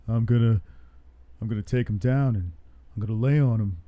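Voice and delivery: light Houston accent, deadpan impression; Derek Lewis. Streamer retelling a fighter's press conference answer, light Houston accent impression. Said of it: "You sound just like him".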